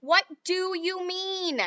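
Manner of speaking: chewing while talking. Acted. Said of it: "still chewing away".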